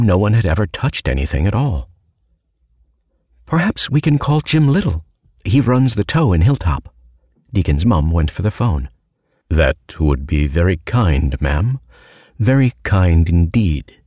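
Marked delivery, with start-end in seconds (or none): 3.5-6.9 lightly voiced higher mother, friendly; a cheerful innkeeper mom; mum voice. 9.5-13.9 low looming threat. Acted. Sinister stranger voiced in story.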